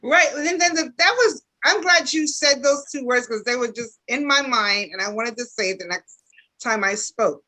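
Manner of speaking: talking around a retainer; slightly lisped through a retainer; retainer in mouth. Real, not acted. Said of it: "I have a retainer in my mouth".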